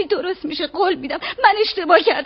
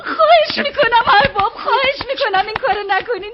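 tearful pleading; 2 semitones higher than usual. Acted. Maid begs master not expel.

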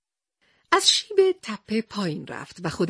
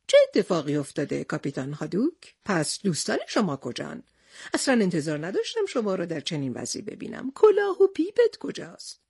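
lower, concerned Tarzan voice, rising at the end; Tarzan's concern; 3 semitones lower than usual. Acted. Tarzan finding exhausted captain, concerned question. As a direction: ask with worry about his friend. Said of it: "او پرسید".

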